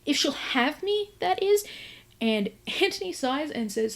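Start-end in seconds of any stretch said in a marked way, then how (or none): 0.1-1.6 halting, hesitant, full of ums; nervous stammer. Retold or imitated. Gareth asking Antony for her hand, stammering and nervous. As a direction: stumble through the proposal nervously. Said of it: "Gareth is an absolute bundle of nerves".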